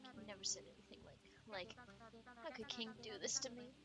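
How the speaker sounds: lightly voiced heartbroken character; mildly theatrical hurt; wistful grieving friend. Plays grieving friend in a game.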